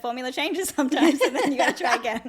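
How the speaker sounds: amused, giggling delivery; laughing while talking. Real, not acted.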